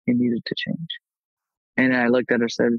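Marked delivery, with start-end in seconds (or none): 0.1-0.9 high, otherworldly inner voice; voice in my head. Retold or imitated. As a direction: let an eerie voice speak from inside the head. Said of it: "the voice in my head said".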